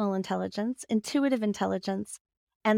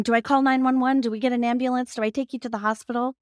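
mock panic; 3 semitones higher, faster than usual. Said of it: "is freaking out and he's going".

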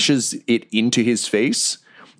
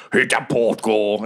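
slow, defeated sigh of a dying goblin; resigned sigh; slower than usual. Retold or imitated. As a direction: let it out on a weary breath. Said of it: "and sighs like".

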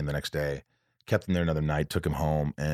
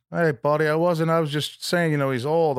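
imitated friend, higher and louder; pitched-up backpedaling friend voice; Harlan's reply; 11 semitones higher, 4 dB louder than usual. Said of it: "he's like, he's like".

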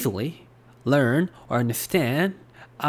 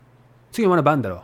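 quick standard Tokyo Japanese, ending on "だろ"; Tokyo dialect; much faster than usual. Shown as a demonstration. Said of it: "in Tokyo dialect is".

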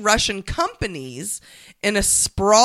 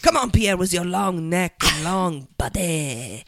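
mock French accent. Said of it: "You did French".

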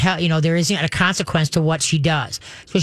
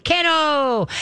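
"kennel" sung out much higher and cheerful; happy perky word; 9 semitones higher than usual. Shown as a demonstration. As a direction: lift "kennel" up high and happy. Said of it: "it's gotta sound happy, perky, positive".

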